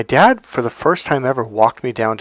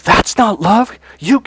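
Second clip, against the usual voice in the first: higher-pitched indignant retort; retold angry protest, pitched up; pissed; 9 semitones higher, 4 dB louder, slower than usual. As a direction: reenact an angry rejection. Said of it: "And I was pissed".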